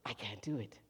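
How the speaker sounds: a small defeated murmur; deflated defeat. Retold or imitated. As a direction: give up with a sigh in the voice. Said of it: "they go".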